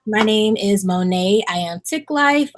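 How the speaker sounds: bright formal host intro; formal introduction. Acted. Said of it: "I'll do, like, a formal introduction".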